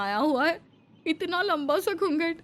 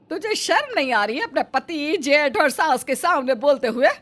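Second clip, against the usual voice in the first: loud, rising scold of a stern mother-in-law; scolding the younger daughter-in-law, loud and furious; angry scolding; 7 dB louder than usual. Acted. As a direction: tear into the young bride.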